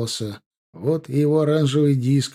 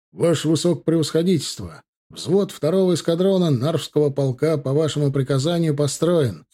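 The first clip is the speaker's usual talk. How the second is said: formal report, slightly raised; military report; 3 semitones higher than usual. A narrator's reading. Ensign reporting his platoon to the general, formal report. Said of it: "докладывает прапорщик Гончаров".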